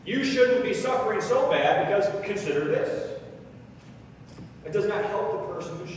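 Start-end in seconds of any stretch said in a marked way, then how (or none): 0.0-3.2 raised, louder mock consoling; dismissive well-meaning comforter; insensitive pep talk. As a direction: brush their pain off with forceful cheer. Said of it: "you're trying to say".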